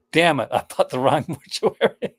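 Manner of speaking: hammed-up regret breaking into laughter; mock exasperation. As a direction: play an annoyed buyer, slowly, laughing through it. Acts out a buyer's dismay.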